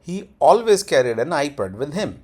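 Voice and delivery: slow model sentence, "always" stressed; sentence tone demo. Shown as a demonstration. Teacher converting Hindi to English, slow tone demo. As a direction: lean on "always", slow and connected. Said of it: "tone इसकी ऐसी रहती है".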